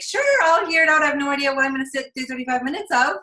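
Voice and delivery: imitating a prospect who's only half interested; doubtful prospect. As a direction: play the unsure prospect humoring you.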